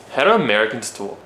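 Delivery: tentative American accent. Shown as a demonstration. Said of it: "What about American?".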